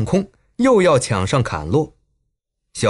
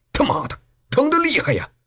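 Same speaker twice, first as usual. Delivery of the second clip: high, pained cursing; groaning in pain; 9 semitones higher than usual. A narrator's reading. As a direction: curse and whine about the hurting leg. Wounded thug complains of pain.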